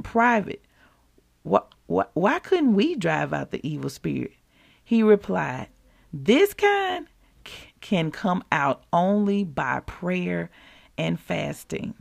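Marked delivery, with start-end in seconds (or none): 1.4-4.3 timid disciples. Acted. Disciples asking, stammering. 6.1-11.9 solemn answer. Acted. Jesus answering, slow, fading.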